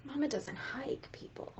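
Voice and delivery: hushed whisper with a grin; mock-secret whisper; confiding whisper. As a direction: lean in and whisper it. Confiding aside to audience.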